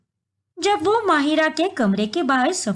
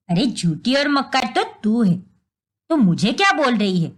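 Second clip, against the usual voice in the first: stern mother-in-law; 3 semitones lower than usual. Acted.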